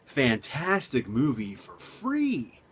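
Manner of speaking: drawn-out mock enthusiasm; slow, sarcastic sales pitch. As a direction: oversell it slowly with obvious sarcasm. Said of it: "I'm being sarcastic right there".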